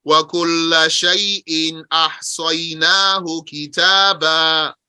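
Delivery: measured chanted recitation of the verse; Quran recitation. Acted. Teacher reciting the verse to his class. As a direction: recite it like scripture.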